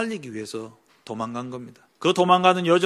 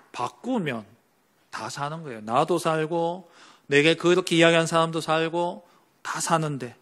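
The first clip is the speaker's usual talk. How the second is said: normal talking voice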